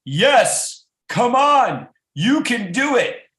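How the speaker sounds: high, loud cheering; excited cheering. Acted. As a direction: cheer the baby on at the top of your voice. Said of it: "they started screaming".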